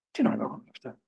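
the same question dropped to a hushed whisper; a soft unvoiced repeat of the question; whispered echo. Shown as a demonstration. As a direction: breathe it out as if to yourself.

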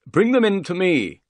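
high, loud call from another room. A narrator's reading. Unseen master to his servant inside the house, calling out. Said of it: "the voice called".

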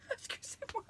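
high, loud laughter breaking into tears; overwhelmed, laughing through tears; laughing and crying. Real, not acted. Opening a friend's gift, laughing and crying at once. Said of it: "Je ris, je pleure en même temps".

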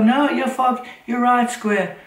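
put-on high, loud old woman voice; imitating Annie. Annie to Square, high loud imitated old woman voice. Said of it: "she'd go".

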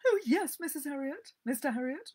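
high, loud, flustered lady's voice; flustered owner caught overfeeding her dog; wailing lady. Acted. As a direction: wail apologetically at the vet. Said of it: "Missus Pumphrey wailed".

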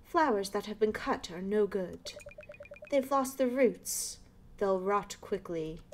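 put-on lightly done posh British old lady, slow; a hint of a proper British neighbor. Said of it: "like, a posh British voice".

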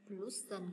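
"pollution" stressed on the LU; stress before final syllable. Shown as a demonstration. Teacher explaining the stress rule, middle syllable of "pollution" stressed. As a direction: lean on the middle of "pollution", then fall. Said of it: "nhấn trước nó một vần".

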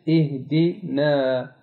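इहदिना slow, with a thin, light aa; fine Quranic alif. Shown as a demonstration. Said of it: "softly अदा होता है". (बारीक अलिफ, धीरे से)

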